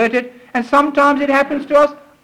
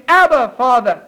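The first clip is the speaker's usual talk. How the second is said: mildly raised cry of praise; joyful cry; 3 semitones higher than usual. Acted. Preacher voices a believer's heart praising God, joyful cry. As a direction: call out to God with joy. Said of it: "your heart cries out in joy and praise".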